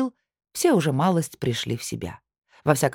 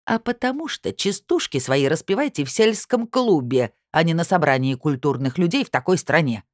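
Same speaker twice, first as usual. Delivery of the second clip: screeching. Acted. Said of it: "заверещала Аврора Илларионовна".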